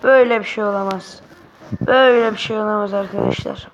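loud, fast cry of disbelief; can't believe what just happened, fast and loud; outraged gamer yell. Real, not acted. Disbelief at the game.

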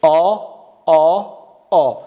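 long open aa sound, held; teacher modelling the vowel آ; drawn-out long a. Shown as a demonstration. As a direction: stretch آ slowly. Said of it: "ببینیم".

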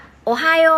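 "โอไฮโอ" drawn out very slowly, high and loud; Japanese greeting demo. Shown as a demonstration. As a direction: model "โอไฮโอ" syllable by syllable like a teacher. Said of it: "คำว่า".

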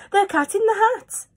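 high, loud excited announcement; thrilled child shouting it; excited cry. Acted. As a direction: gasp out the big reveal. Children spot the cat.

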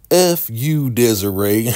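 imitating a suspect cursing out the detective; defiant outburst. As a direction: spit it at her like a cornered suspect.

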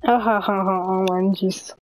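deadpan fake amusement; sarcastic, spoken ha-has; mock laughing. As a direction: claim hilarity without a real laugh. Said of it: "I'm laughing so hard".

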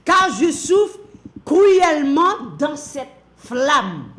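loud, high, slowed lament; drawn-out tormented wail; anguished cry. Acted. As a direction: cry out the pain of the flame. Preacher voices the suffering rich man.

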